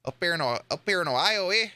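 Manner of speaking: badly faked Canadian, tagged with eh; hammed-up Canadian lilt; bad Canadian accent. Shown as a demonstration. Joking about northern Ohio, bad Canadian accent. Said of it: "more of a Canadian accent".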